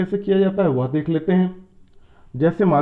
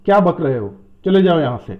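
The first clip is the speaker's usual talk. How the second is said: mild mock scolding, a bit louder; 5 dB louder than usual. Shown as a demonstration. Teacher demonstrating a scolding line, mild mock anger. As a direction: tell someone off, half-acted. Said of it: "हम डांटने के लिए".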